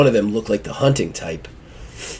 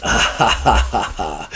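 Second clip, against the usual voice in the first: host's chuckle; 2 semitones lower, 4 dB quieter than usual. Acted.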